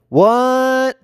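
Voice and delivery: shocked what. Retold or imitated. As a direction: bark out stunned disbelief. Shock at divorce.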